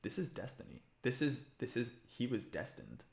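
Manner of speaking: soft, earnest craftsman; Cicero. Acted. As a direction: confide a sense of destiny, very quietly. Voices Cicero to the player.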